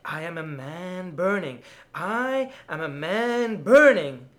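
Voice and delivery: from firm to a loud scream; screamed, building. Acted. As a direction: let it swell into a scream. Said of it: "I screamed".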